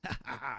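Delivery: soft low staccato ha ha ha; a mild mock villain laugh; quiet mock laugh. Streamer imitating a game character's soft mock laugh. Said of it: "he's, like, laughing".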